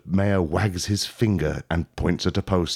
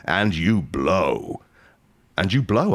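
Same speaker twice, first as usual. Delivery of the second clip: drawn out; slower than usual. Shown as a demonstration. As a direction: drag out "and you blow" deliberately. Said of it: "I'll say it a third time".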